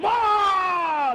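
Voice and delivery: high, loud mock outburst; mock wail. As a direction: squeal it like a freaking-out official. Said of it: "and then".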